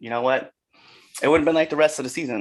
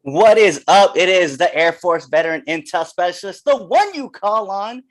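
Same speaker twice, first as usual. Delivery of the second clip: hype; 2 semitones higher, 4 dB louder than usual. Acted. Self-introduction as wrestler.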